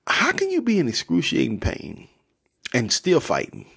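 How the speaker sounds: high-pitched mock protest; lightly voiced, high objection from Jacob. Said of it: "And Jacob like".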